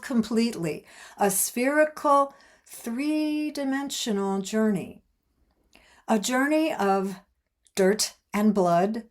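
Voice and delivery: measured, lifted read of a book excerpt; reading aloud. A narrator's reading. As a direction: read it out phrase by phrase, with pauses.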